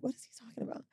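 breathy whisper to herself; hushed confused whisper; whispered aside. Retold or imitated. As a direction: whisper it like a private thought. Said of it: "I'm like".

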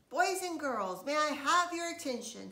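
loud, high announcement to the crowd; loud host calling out; announcing. A narrator's reading. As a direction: call the kids to attention. Daddy addresses the party.

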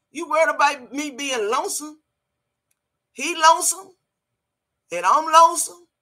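high, loud disbelief; incredulous. Real, not acted. Mocking the lonesome claim.

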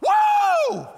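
high, very loud "whoa"; piercing, drawn-out cheer; excited kid's whoop. Acted. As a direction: whoop like a kid running into church. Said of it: "first thing that they do is go".

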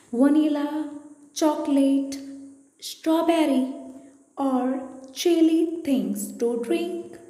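measured poem recitation with pauses between phrases; poem reading. Acted. Teacher reading a poem to class five pupils, measured recitation. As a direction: read it out line by line, carefully phrased.

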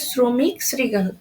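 শ্রমিক, শৃগাল each opening on s; dental s. Shown as a demonstration. Teacher recaps examples for students, শ্রমিক, শৃগাল with dental s. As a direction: say শ্রমিক, শৃগাল as "sromik, srigal". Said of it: "স এর মতো উচ্চারণ হচ্ছে".

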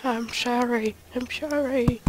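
playful drawn apology to oneself; mock apology. Player apologising to self, mock-sorry. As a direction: act out a sorry culprit, lightly.

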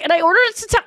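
petulant, half-acted grumble; snippy attitude. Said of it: "had that, like, tude of".

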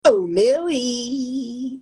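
slow, loud and high; loud dramatic call. Shown as a demonstration. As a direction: belt it out slowly with drama. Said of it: "three takes of the same words".

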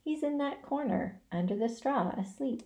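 soft, fading answer; weak and quiet. Acted. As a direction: answer with little breath left. Spider answers weakly.

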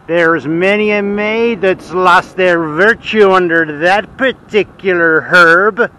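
slow, drawn-out put-on English accent, Kevin Costner style; English accent stretched out and savoured for the quip; mock English accent. Cyclist mimics Costner's English accent to his viewers: slow, hammed-up English accent. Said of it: "impeccable English accent says".

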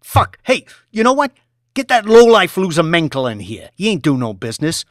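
a boss in a temper, loud and high; angry boss. Acted. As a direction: rage at the underling. Boss raging at employee.

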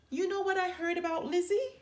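loud call. A narrator's reading. Sister calling loudly to Fred so Lizzie hears. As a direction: pitch it across the playground. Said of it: "she called loudly to Fred".

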